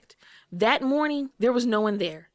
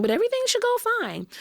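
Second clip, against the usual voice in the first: higher, fast breezy reassurance; much higher upbeat nurse voice; imitating nurse; faster than usual. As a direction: toss it off quickly and higher. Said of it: "they tell us".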